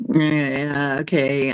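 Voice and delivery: talking through a yawn; stretched yawning words. Real, not acted. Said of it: "I'm yawning".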